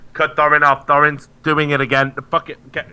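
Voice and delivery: mock producer snapping orders; producer barking. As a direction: snap out orders to cut him off. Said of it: "the producer's like".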